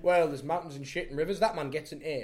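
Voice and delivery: clueless supply teacher making it up; flustered substitute teacher. Acted. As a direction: bluff through a lesson you never prepared. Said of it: "a supply teacher".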